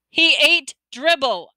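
slow, high, loud insistence; insistent. A narrator's reading. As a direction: stretch out each word to insist. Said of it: "I insisted".

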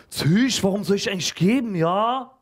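put-on high, fast, loud pushback from a boy; defiant kid. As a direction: challenge the teacher cockily. Defiant pupil.

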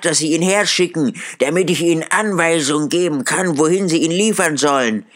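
put-on high, eager old gentleman giving orders; high and hurried, thrilled with his own plan; excited Scrooge. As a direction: rattle off the errand in high-pitched excitement.

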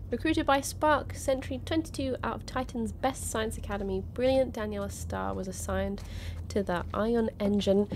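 lightly narrated card biography; reading aloud. Real, not acted. Streamer reading a game trading card aloud, narration. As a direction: read it out like a character profile.

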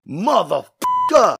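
high, sharp curse; swearing. A narrator's reading. Jimmy swearing in frustration, sharp curse. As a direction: spit the curse out. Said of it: "he swore".

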